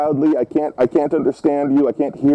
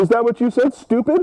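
higher, incredulous questioning; affronted disbelief; 4 semitones higher than usual. Pretend. Old man questions caller about the insult, incredulous. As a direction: let the last word leap up in mock outrage.

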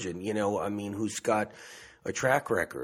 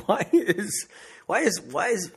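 laughing through the words, higher; a giggle breaks into it; 10 semitones higher, 4 dB louder than usual. Real, not acted. Caught laughing at her own stumble, restarting.

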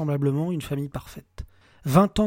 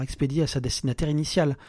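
ordinary delivery

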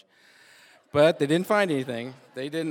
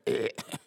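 imitated gagging; 4 semitones lower, 4 dB quieter than usual. Imitates friend sick from swallowed gas.

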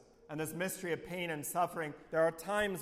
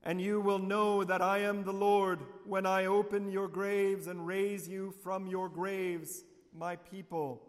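God promising to open the graves, proclaimed strongly; strong proclamation; 3 semitones higher, 4 dB louder than usual. Acted. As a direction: declare it boldly from the pulpit. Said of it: "Saying quite strongly".

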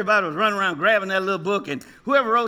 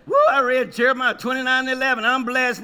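mock boastful believer; 3 semitones higher than usual. Mocking a boastful churchgoer.

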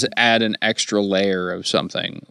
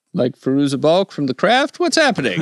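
laughing; 7 semitones higher than usual. Real, not acted. Mock confusion at the character name.

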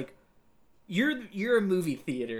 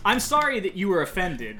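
insincere non-apology; sorry you were offended, not sorry; white man apology; 3 dB louder than usual. Pretend. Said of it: "am I supposed to do a white man apology".

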